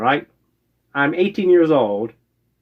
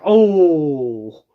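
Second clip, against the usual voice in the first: retold shock; 2 semitones higher, much slower than usual. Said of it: "the expression on my face".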